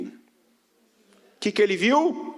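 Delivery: slow, stretched question to the crowd; drawn-out question. Acted. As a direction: draw the question out slowly, rising at the end. Preacher repeats question to congregation. (pergunta lenta e arrastada para a igreja)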